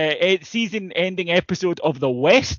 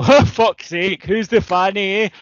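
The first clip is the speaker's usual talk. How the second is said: self-mocking shrug-off; 3 semitones higher, 4 dB louder than usual. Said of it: "What you do is go".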